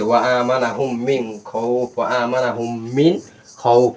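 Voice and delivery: slow, measured recitation with held vowels and nasal holds; Quran recitation. Shown as a demonstration. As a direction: recite slowly, stretching the long syllables. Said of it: "একসাথে কি হচ্ছে?". (ধীরে টেনে কোরআন তিলাওয়াত)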